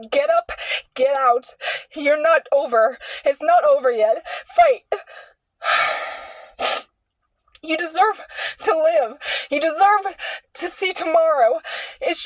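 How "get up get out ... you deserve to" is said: urgent inner voice. Retold or imitated. Inner voice urging her to live.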